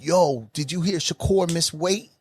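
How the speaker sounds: slow, lightly voiced gossipy fan; the guy in the next seat, drawn-out and eager; imitating a fan. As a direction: lean over and ask slowly, like a know-it-all. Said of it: "the guy sitting next to us is like".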